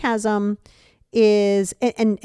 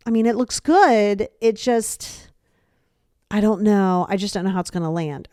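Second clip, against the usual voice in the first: passive aggressive. Shown as a demonstration. Friend avoiding a straight verdict on a dress, passive aggressive. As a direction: stretch "good" and hedge with pauses. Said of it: "passive aggressive behavior".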